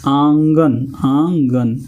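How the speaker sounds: आंगन said with nasal आं; nasal example word. Shown as a demonstration. Teacher giving a nasal example word to students. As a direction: voice आंगन through mouth and nose. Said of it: "जैसे अंगना".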